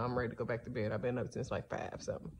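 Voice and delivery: sleepy, yawning through the words. Real, not acted. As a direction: talk mid-yawn, drowsy. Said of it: "so I'm yawning now".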